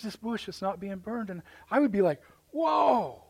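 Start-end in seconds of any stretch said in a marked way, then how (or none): 2.5-3.2 high, loud-ish stretched exclamation; astonished. Acted. Preacher imagining himself seeing the burning bush, astonished. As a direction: act out being stunned, pitch soaring.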